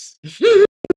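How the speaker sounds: loud, high burst of laughter. Real, not acted. Speaker laughing at her own claim to be loud, loud laugh.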